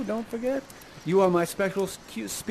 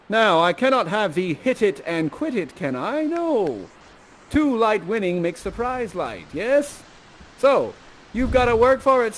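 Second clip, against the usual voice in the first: lightly hammed-up lordly father; stern father. Father setting the suitor his tasks, lightly theatrical authority. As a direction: lay down terms grandly, with emphatic bursts. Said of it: "And I say".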